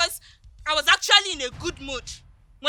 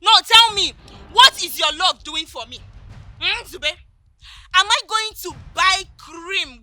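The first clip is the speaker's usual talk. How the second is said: angry retort; 5 dB louder than usual. Acted. Angry girlfriend snapping back.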